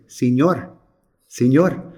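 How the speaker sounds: put-on little boy calling out in accented Spanish. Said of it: "excuse my accent, but here it comes".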